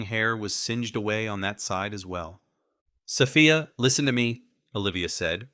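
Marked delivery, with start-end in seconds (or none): 3.0-4.4 calling out over crackling sparks; raised voice. A narrator's reading. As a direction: lift the voice to carry. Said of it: "raising her voice a little to be heard".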